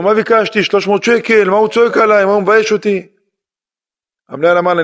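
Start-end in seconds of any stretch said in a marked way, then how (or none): 0.0-3.1 higher-pitched, wounded pleading; imitated tearful complaint. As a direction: retell her crying protest in a raised pitch. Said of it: "התחילה לבכות לו". (חיקוי של תלונה בוכייה)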